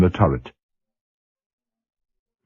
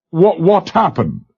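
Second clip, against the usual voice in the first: incredulous; 8 semitones higher than usual. A narrator's reading. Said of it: "Valery was incredulous".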